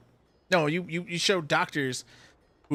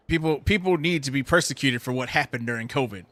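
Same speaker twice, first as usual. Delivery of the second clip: worked up; 5 dB louder than usual. Real, not acted. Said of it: "I'm getting really worked up".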